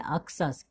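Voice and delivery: "अक्सस" with the x read as ks; teacher's model reading of "अक्सस", ak-sus; pronunciation demo. Shown as a demonstration. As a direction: say "अक्सस" as ak-sus, falling at the end. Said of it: "क्या पढ़ेंगे".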